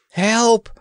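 high, loud, panicked call; agonized cry for help. Acted. Prince calling to anyone in a panic, high and loud. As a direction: yell for help as if terrified. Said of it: "in an agonized voice".

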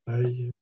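"taille" said clearly as the French word "taille", like "tie"; "taille" as a spelling trick for "tie"; spelled-out sound. Shown as a demonstration. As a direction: show how "taille" gives the first sound of timer. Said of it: "comme ça".

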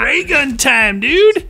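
excited shout. Real, not acted. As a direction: shout it with glee. Excited call.

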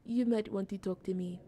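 badly faked French accent; terrible French accent. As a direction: read it with a clumsy French accent. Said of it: "I have a terrible French accent".

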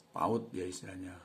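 ordinary talk, nothing marked

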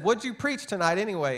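hammed-up indignant wife; retold angry wife. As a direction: playfully act out the upset wife's question. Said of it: "she's yelling at him".

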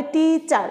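টিচার split into টি and চার; broken into syllables. Shown as a demonstration. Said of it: "ভেঙে ভেঙে উচ্চারণ করবে". (টিচার ভেঙে ভেঙে, টি-চার)

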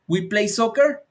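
slow, "soccer" rising at the end; rising question tune. Shown as a demonstration. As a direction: ask it slowly, climbing on "soccer". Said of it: "subiendo la entonación".

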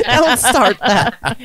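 laughing slow mock echo. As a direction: repeat it through laughter. Mocking friend's line.

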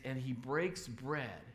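slow solemn telling. Acted. Preacher slows at the key moment.

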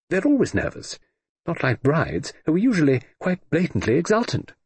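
lightly voiced old aunt teasing the groom; elderly aunt. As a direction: play a dry, amused great-aunt. Old aunt Lady Matilda voiced.

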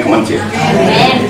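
usual speaking voice

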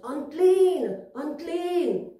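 mild, high-pitched warning call; mock shouting. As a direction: call out a warning, acted for children. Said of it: "they had to shout".

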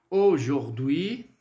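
slow, drawn-out French AUJOURD'HUI; teacher's model pronunciation. Shown as a demonstration. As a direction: model "Aujourd'hui" slowly, ending on a lift. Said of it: "de pronunciar esse aujourd'hui".

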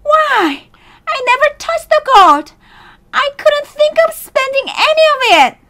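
very high, indignant miser; angry screaming. Acted. Miser who never touched his gold, angry high protest. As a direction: protest angrily in a screechy high voice. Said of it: "screamed the miser angrily".

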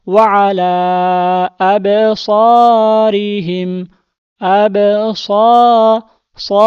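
আবসারিহিম stretched very slowly, then আবসা- and সা broken apart; slow reading demo. Shown as a demonstration. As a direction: spell out আবসারিহিম slowly, piece by piece. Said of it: "এখানে আমরা পড়ব কিভাবে?". (ধীরে ভেঙে ভেঙে আবসারিহিম)

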